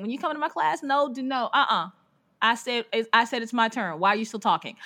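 lightly voiced drill sergeant teacher; a hint of a stern, crotchety teacher. Teacher laying down rules as class begins, mildly drill sergeant-y. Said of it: "a bit drill sergeant-y".

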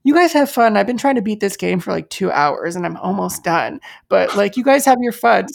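bright, easygoing dismissal; breezy gamer boyfriend. Retold or imitated. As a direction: wave them off, eyes on the game. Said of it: "And he goes".

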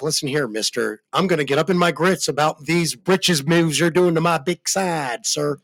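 a mild comic put-on drawl; hint of South Park cartoon. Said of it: "was that some real South Park shit".

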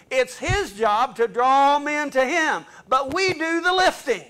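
rising, fired-up preacher's push; excited preaching. Real, not acted. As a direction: lift the line with building fervour. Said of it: "Sorry if I get a little excited".

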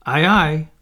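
small, different fairy reply. Acted. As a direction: chirp back like a tiny fairy. Tinker Bell answers Peter.

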